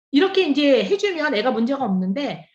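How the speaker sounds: ordinary delivery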